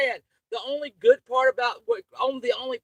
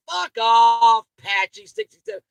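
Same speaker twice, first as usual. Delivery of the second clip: angry snap; 8 dB louder than usual. Real, not acted. Angry at chat commenter.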